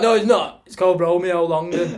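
laughing correction to a policeman. Retold or imitated. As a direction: laugh out the fake name. Laughing fake name.

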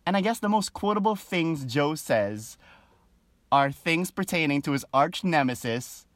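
usual speaking voice

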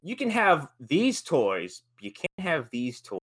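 slow, patronizing pronouncement; mock decree. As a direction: lay down the rules slowly.

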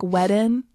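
"wedding" as "weddin", the final g dropped; Southern pronunciation. Shown as a demonstration. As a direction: demonstrate your Southern "wedding", ending in a plain n. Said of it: "And I'll say, like".

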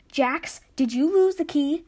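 rising panic over the key; panicked. Acted. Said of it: "Ash started to panic".

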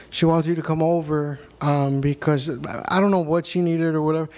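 normal talking voice

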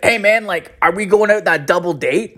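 high, hopeful pal on the phone; eager buddy. Acted. Old buddy phones about a double date, eager.

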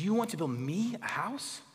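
a touch of a condescending God, want rising; mildly scornful question to a king. Shown as a demonstration. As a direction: talk down to David, unimpressed. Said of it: "the emphasis of God condescending to David".

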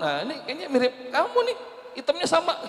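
mock shaman verdict. Preacher imitates the shaman naming the father, laughing. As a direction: play the village shaman matching a father, amused. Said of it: "Kalau kata dukun".

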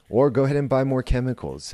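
quick, mock-encouraging sarcasm; facetious. Mocking chemical fixes to listeners, sarcastic. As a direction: tease them as if you mean it. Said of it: "I'm being facetious".

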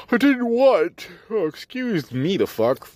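sudden high yelp of surprise; startled outburst. Real, not acted. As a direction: jump at the interruption. Interrupted by yawning passenger.

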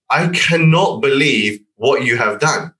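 drawn-out mock fury without shouting; retold angry outburst. Retelling the client's angry phone call, slow mock outrage. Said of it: "he has gone so crazy happy, shouting, screaming".

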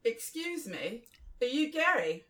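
careful second go at Australian; Australian accent. Acted. Actor restarting Jack's greeting to Gary, Australian accent. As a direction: put on an Aussie accent. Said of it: "you got to do the accent".

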